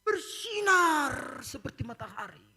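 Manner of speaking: put-on child's voice.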